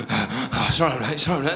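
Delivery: acting winded from running in; puffed, hurried apology; out of breath. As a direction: gasp out an apology as a flustered latecomer. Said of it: "comes running in like that, all late".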